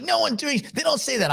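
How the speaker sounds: high, flat dismissal from a Kiwi friend; New Zealand friend's scoff. Retold or imitated. Friend from New Zealand dismissing Foster's, high mock scoff. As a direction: knock it down like nobody would touch it. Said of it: "She's like".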